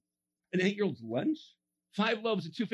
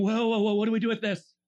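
alarmed leaders; 4 dB louder than usual. Retold or imitated. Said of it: "religious leaders in the back going".

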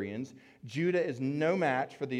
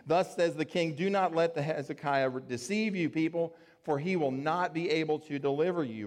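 raised pitch, projected royal decree; loud proclamation; 3 semitones higher than usual. Acted. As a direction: call it out to the people on the wall. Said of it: "called out in a loud voice".

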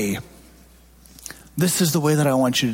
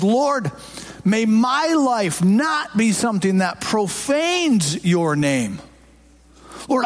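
prayer; 3 semitones higher than usual. Acted. Pastor modelling a prayer for the church, earnest pleading. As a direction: pray it out humbly before the congregation.

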